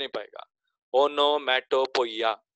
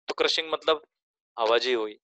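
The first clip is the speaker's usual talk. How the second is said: whisper; faster than usual. Real, not acted. Teacher aside.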